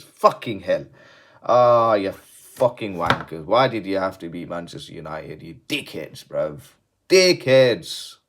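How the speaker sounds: hammed-up fury at West Ham; mock angry rant. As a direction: rant like a wound-up fan.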